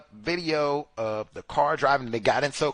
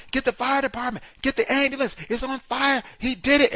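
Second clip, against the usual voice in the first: much higher, urgent shouted calls; imitated yell; 11 semitones higher, 4 dB louder than usual. Witnesses calling for the fire department, shouting. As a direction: call for help across the street. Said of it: "come back and yell".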